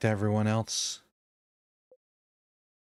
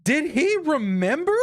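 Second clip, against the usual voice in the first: high, loud, pleading cry; desperate shout; 6 dB louder than usual. Shown as a demonstration.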